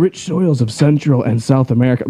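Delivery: measured superhero announcer read. Acted. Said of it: "my announcer voice".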